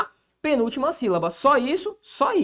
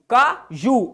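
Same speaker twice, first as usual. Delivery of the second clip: "Caju" split in two, landing on JU; stress on JU; 3 semitones higher, 4 dB louder than usual. Shown as a demonstration. Teacher showing the tonic syllable, stressed JU in "Caju". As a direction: separate the syllables of "Caju" and weight the last. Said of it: "a sílaba tônica é a última".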